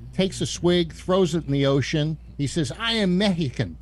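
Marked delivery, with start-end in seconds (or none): 2.8-3.8 put-on Mexican accent. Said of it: "is that you trying to do a Mexican accent".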